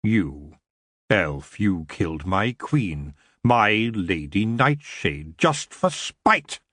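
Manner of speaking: low, slow, menacing growl rising at the end; the elf king accusing the elf who killed his queen. Acted. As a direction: drag out the threat to the elf. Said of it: "he growled".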